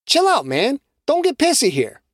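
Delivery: easygoing guy; young man voice. A narrator's reading.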